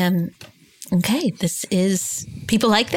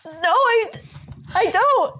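much higher, strained panic; high panicked squeak; 13 semitones higher, slower than usual. Pretend. Panicking, throat closing.

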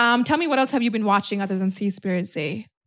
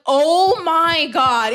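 drawn-out, louder "oh my God"; retold shock; 4 semitones higher, 4 dB louder, much slower than usual. Telling friend about googling it as a teenager, retold shock. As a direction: stretch it out in dawning realisation. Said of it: "I had to Google and I was like".

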